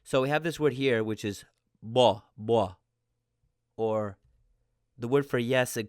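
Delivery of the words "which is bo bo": bo said like stuffed-up mo, nasal sound blocked; stuffy nose bo. Shown as a demonstration. Teacher shows Korean M sounding like B. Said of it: "sounding like your nose is a little stuffed up".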